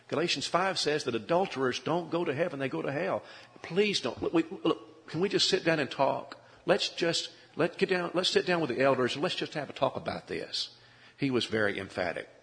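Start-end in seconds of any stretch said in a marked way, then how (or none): 0.1-10.7 higher, urgent begging; pleading. Retold or imitated. Preacher pleading with straying member, higher urgent begging. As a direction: beg him to sit down and talk. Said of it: "I started to plead with him".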